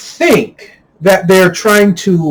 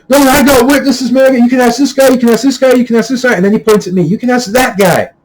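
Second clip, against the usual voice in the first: higher, pushy mock of the raging guy; raging guy insisting; 6 semitones higher, faster than usual. Imitating the raging guy pointing out witnesses to the owner.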